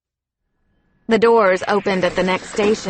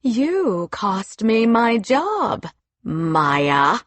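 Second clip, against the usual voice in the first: trembling voice; much slower than usual. Acted. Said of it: "Her lips trembled as she said".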